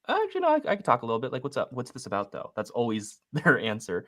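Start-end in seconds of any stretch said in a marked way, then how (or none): 0.1-2.5 imitating a prospect. Agent mimicking a seller picking up, hurried. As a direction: rattle it off like a caught-off-guard seller.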